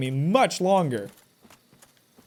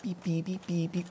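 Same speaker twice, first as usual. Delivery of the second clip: soft beeps; 11 dB quieter than usual. Pretend. Imitating a beeping noise.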